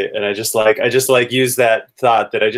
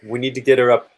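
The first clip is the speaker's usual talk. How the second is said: raised, higher-pitched call to an ally; urgent call; 4 semitones higher than usual. Acted. Amanda to Alric as they battle the vampire, urgent call. Player calls to ally mid-fight.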